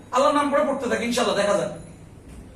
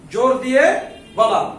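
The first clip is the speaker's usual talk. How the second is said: louder and slow, each word hammered; slow emphatic drill; 5 dB louder, slower than usual. Shown as a demonstration. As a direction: hammer home জোর দিয়ে বলা. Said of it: "কি বলা?". (ধীরে জোরে জোর দিয়ে বলা)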